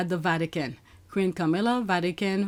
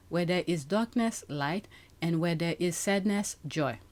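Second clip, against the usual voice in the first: prayer reading. Acted. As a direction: lay each line down gently, like a prayer. Reads prayer for peace.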